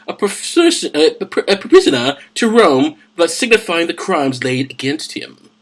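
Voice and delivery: a hint of a hushed, measured ruler; Festus. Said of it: "Let me do Festus".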